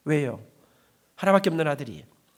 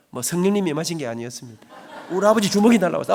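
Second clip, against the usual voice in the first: usual speaking voice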